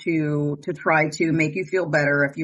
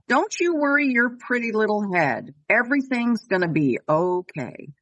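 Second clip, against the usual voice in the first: lightly imitating a loved one's comforting words, starting higher; a touch of sweet consolation; sweet, kind reassurance; 4 semitones higher than usual. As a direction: retell it as gentle comfort, lifted then settling. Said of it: "just as sweet and kind as Noah is".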